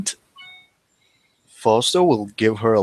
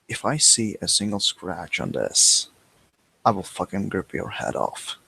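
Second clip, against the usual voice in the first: low menacing threat; 3 semitones lower, 6 dB quieter than usual. Acted. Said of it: "and he will say".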